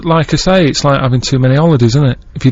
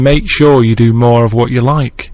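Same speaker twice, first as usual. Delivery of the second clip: mock motivational bloke; slower than usual. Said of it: "he was saying".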